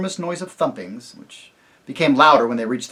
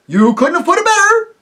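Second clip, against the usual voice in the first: high, loud, eager agreeing roar; the other voices roar their eager agreement; roaring chorus; 11 dB louder than usual. Acted. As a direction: shout it like a crowd of cheering yokels. Others praise the chief.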